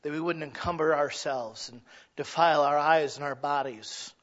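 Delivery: earnest spoken prayer to God. Acted. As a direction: pray it humbly. Closing prayer.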